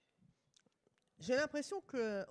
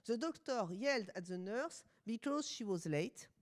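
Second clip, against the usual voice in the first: French-accented English. Real, not acted. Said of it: "vous excusez mon accent, je suis française".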